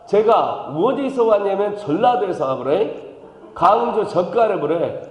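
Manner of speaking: playful Jeolla dialect, a touch of a laugh. Pretend. Pastor teasing the congregation in mock Jeolla dialect. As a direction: lay on a Jeolla accent for the crowd. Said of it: "일 번 손 든 거야".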